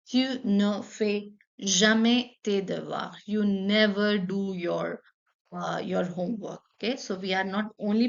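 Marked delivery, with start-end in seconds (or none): 0.1-3.1 slow, clear repeat; teacher repeating the negative sentence. Shown as a demonstration. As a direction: repeat it slowly. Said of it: "For example".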